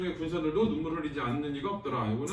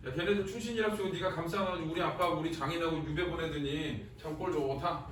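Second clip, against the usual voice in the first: softer, muttered mock sneer; a quiet 'serves you right'; sarcastic jab; 7 dB quieter than usual. Teacher voicing Chungryeol sneering at the emperor, quiet sarcasm. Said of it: "이러고 있는 거야".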